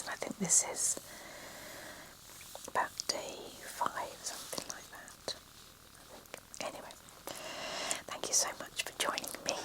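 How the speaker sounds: whispered reading, every word unvoiced; ASMR whisper. Real, not acted. Author reading her novel to relaxing listeners, whispered throughout. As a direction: read the story in a hushed ASMR whisper.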